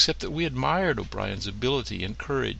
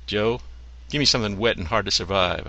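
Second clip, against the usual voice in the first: barroom order; 6 dB louder than usual. Acted. Ordering a drink at the bar.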